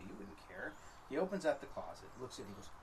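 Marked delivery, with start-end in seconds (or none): 0.1-0.7 whisper. Retold or imitated. Wife answers guest, under her breath.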